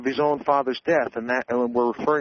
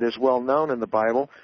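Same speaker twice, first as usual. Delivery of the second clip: ordinary delivery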